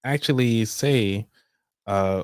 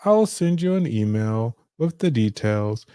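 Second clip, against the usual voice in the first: high, bright receptionist voice; 4 semitones higher than usual. Acted. Receptionist wrapping up the call, high and upbeat. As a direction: play the cheerful helpful receptionist. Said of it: "The receptionist".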